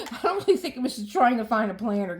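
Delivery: talking through a laugh. Real, not acted. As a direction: laugh it off while speaking. Laughing at own planner video.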